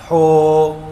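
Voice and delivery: ہو with a rasping, scraped h; wrong rough h. Shown as a demonstration. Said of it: "اسی ہا کو ہو کر دیا".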